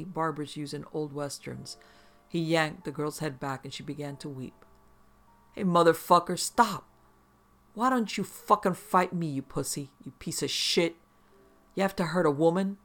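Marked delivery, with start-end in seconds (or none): 5.5-12.8 furious yelling at him. Acted. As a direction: shout it out desperately. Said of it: "I started yelling anything I could think".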